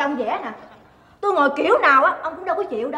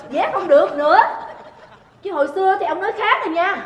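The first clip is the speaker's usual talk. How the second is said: ordinary talk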